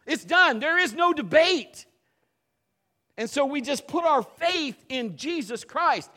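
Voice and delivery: loud, high, fervent preaching; full-force preaching. Acted. Preacher thunders to the congregation about believing prayer, loud and fervent. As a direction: drive it home to the congregation.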